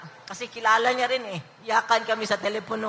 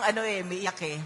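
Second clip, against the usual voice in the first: real tears held in, almost inaudible at the end; holding back tears; 4 semitones lower, 9 dB quieter than usual. Real, not acted. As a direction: voice sinks low and soft, fighting off crying. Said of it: "may iyak ako eh". (pinipigil ang iyak, mahina ang boses)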